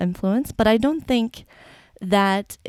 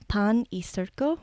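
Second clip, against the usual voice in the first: basic Spanish accent; 4 dB quieter than usual. Real, not acted. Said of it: "Sorry, my Spanish accent sucks".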